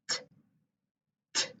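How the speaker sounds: t, t, a crisp unvoiced t; t sound modelled. Shown as a demonstration. Teacher showing the mouth for t. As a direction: tap out t twice with the tongue. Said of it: "notice about my mouth".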